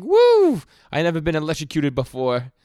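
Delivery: high, loud whooping yell; villain shrieking in glee while being electrocuted; mock electrocuted yell. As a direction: shriek like a jolt just hit you.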